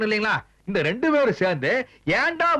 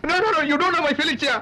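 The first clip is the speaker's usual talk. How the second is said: high, slow wailed protest; childlike crying; 6 semitones higher, much slower than usual. Acted. Husband rejecting his companion's comfort, childlike crying. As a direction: wail it out, inconsolable as a child. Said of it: "சின்ன பிள்ளை மாதிரி அழுதுகிட்டு".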